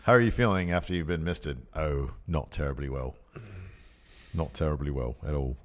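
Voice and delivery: put-on, polite British voice; mock British accent. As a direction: play at being suddenly British. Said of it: "gets you the British accent".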